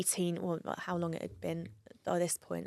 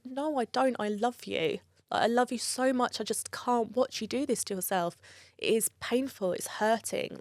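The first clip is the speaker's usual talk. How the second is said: retold heartfelt plea; 4 semitones higher than usual. Retold emotional plea to crying dad.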